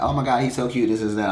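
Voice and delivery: high-pitched mock gush; gushing mother. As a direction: act out a mother swooning over him. Mother gushing over the boyfriend.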